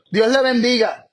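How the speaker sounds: a mock blessing to someone who won't open the door; sarcastic. Shown as a demonstration. Preacher mocking a blessing to a closed door, sarcastic. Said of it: "Puede sonar hasta sarcástico".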